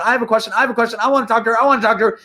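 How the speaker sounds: high-pitched mock pleading crowd; hammed-up eager hand-raisers, high voice; imitating eager audience. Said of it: "Everyone's holding their hands going".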